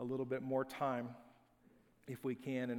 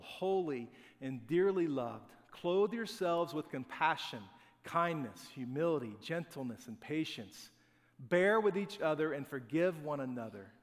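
scripture reading. Acted. Reads Colossians passage aloud.

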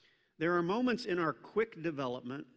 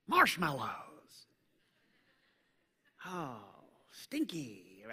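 mock mild swearing; 3 semitones lower than usual. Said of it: "that's not what came out of my mouth".

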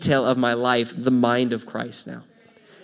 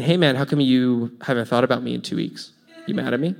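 accusing; 2 semitones lower than usual. Shown as a demonstration. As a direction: sound like you're keeping score. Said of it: "Rather than saying".

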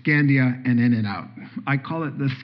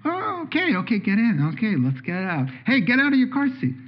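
eager grandpa; 6 semitones higher than usual. Acted. Grandpa answering child.

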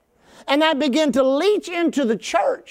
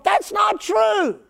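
emphatic shout; 7 semitones higher, much slower than usual. Real, not acted. Preacher rebuts a quoted claim.

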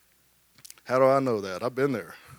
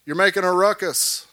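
crowd hushing Bartimaeus; 4 semitones higher than usual. Retold or imitated. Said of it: "everybody said".

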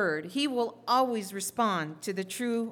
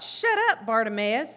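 mock scolding; 4 dB louder than usual. Crowd hushing blind Bartimaeus, mock scolding. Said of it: "He knew what they thought".

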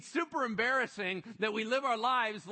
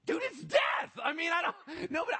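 much higher, loud alarmed outburst; alarmed shout; 9 semitones higher, 4 dB louder than usual. Retold or imitated. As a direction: blurt it out in mock alarm. Mock panic at God's calm.

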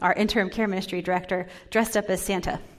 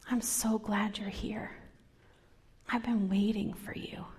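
tender whisper; 6 dB quieter than usual. Acted. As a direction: reassure someone gently. God's welcome to the angry.

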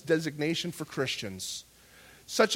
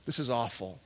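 low, soft, steady prayer; hushed, lowered voice of surrender; mature trust; 6 semitones lower, 6 dB quieter than usual. Acted. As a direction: confide in God quietly, trusting through hardship. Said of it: "a maturity in the Spirit stands in that place that says".

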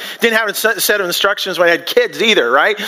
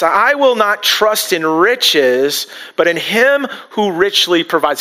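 slow, deliberate, stressing will and him; slow affirmation; slower than usual. Shown as a demonstration. Pastor leading the congregation in an affirmation, slow and deliberate. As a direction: recite it slowly for them to repeat. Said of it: "Can you say that with me?".

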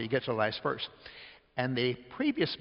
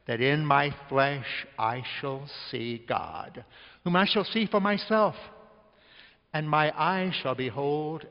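solemn scripture reading. Acted. Preacher reading Job passage.

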